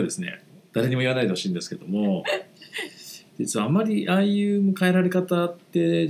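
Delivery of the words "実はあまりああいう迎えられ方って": laughing. Real, not acted. Confiding embarrassed secret.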